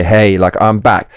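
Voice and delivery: a lightly done tough-guy deep voice; imitating a manly hero returning. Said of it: "He's gonna have a deep voice".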